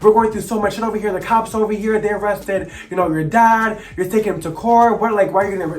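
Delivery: imitating an angry, hurt grandmother; livid grandmother. Grandmother scolding her grandson over the court case, livid. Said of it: "she would be livid".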